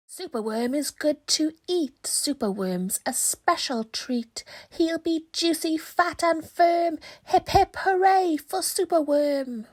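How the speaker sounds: high, loud gloating crow chant; dreadful crow croak. Acted. The crow croaking to the frightened creatures, high gloating chant. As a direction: crow gloats over its next meal. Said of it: "listen to his dreadful croak".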